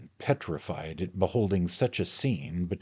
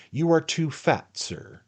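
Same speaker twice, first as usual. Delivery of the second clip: much higher, loud put-down; angry rebuke; 12 semitones higher, 8 dB louder than usual. A narrator's reading. Pickwick insults Tupman, loud and high. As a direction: hit him with it. Quarrel over the costume.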